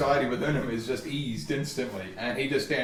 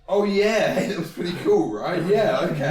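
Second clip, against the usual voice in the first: dazed Sporkblade; 3 semitones higher, 4 dB louder than usual. Acted.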